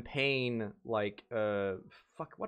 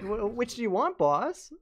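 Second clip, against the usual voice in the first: high, louder squeaky complaint; mock whiny editor; 10 semitones higher, 4 dB louder than usual. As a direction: whine like a tired little employee. Editor asking boss.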